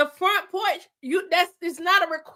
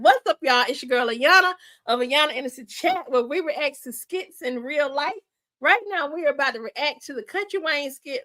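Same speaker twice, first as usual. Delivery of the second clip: upbeat host intro, punched greeting then settling lower; show intro; 4 semitones lower than usual. Acted. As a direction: open the show with a punchy hello, then run through it.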